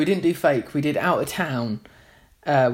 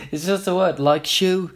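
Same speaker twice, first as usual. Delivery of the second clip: lightly imitated Liverpool accent; attempted accent of a famous singer; 4 semitones higher than usual. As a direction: have an unconvincing stab at a Scouse accent. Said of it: "I can't do the accent".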